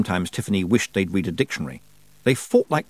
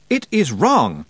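raised, higher-pitched insistent cry; shouted; 5 semitones higher, 4 dB louder, slower than usual. A narrator's reading. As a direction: shout it with some restraint, pitch up. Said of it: "he shouted".

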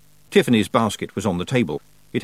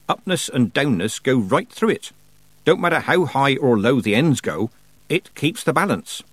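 higher, emphatic country-witch teacher; lecturing old witch; 5 semitones higher, 3 dB louder than usual. Acted. Old witch explaining balance to a girl, instructive. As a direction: lay it out point by point.

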